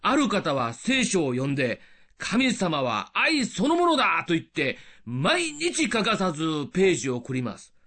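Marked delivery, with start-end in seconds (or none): 2.2-4.2 slow, higher-pitched heartfelt exclamation; admiring declaration. Retold or imitated. A devoted reader speaking of God, admiring. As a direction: declare it with drawn-out conviction.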